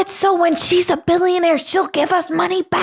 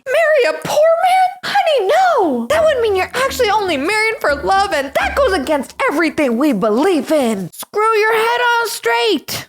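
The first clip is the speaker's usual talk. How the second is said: shocked mama; 4 semitones higher than usual. Acted. Mama horrified at marrying poor, higher mock outrage. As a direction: gasp it like scandalized mother.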